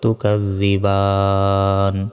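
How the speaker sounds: "তুকাজ্জিবান" with long last aa, closing on bare n; stopping pronunciation. Shown as a demonstration. Teacher shows the stop, "তুকাজ্জিবান" drawn out to n. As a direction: stretch the end of "তুকাজ্জিবান", no final i. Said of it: "থামলে উচ্চারণটা হবে".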